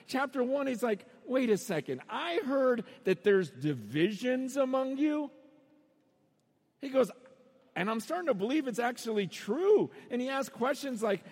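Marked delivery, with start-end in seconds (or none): 1.2-5.3 stretched-out, incredulous challenge; mock-incredulous sarcasm. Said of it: "it's just like sarcasm after sarcasm". 7.8-9.9 Paul's mock amazement; lively sarcastic incredulity; sarcastic disbelief. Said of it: "it's just like sarcasm after sarcasm".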